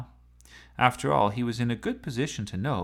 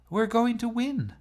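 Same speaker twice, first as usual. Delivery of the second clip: high loud triumphant cry; excited; 13 semitones higher, 4 dB louder than usual. Acted. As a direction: sure of victory. Chloe excited in the race.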